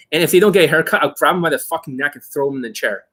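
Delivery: usual speaking voice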